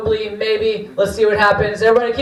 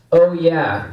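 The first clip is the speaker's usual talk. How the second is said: lightly voiced mascot catchphrase, drawn out; a hint of a big mascot's "oh yeah"; Kool-Aid Man; 4 semitones lower than usual. Comic quoting a drink mascot's catchphrase, light impression. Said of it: "The Kool-Aid Man says that".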